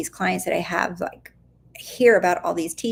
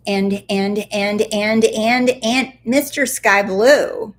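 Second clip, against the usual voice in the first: playful stammer; 5 dB louder, slower than usual. Pretend.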